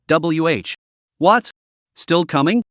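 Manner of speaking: startled stammer, sharp rise; stammering alarm. Acted. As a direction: caught off guard, stuttering. Stammering at another buff.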